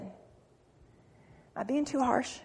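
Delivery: half-joking question to the congregation; quiet slow aside. Real, not acted. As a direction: drop to a sly, hushed check-in. Aside to congregation mid-sermon.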